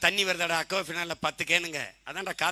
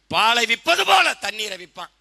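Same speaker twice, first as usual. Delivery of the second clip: imitated orator, loud and raised; Muthuramalinga; 4 semitones higher, 9 dB louder than usual. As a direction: declaim it like an old-time prophetic leader. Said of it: "எங்க தாத்தா முத்துராமலிங்க திருத்துறாரு". (மேடைப் பேச்சாளர் போல உரக்க)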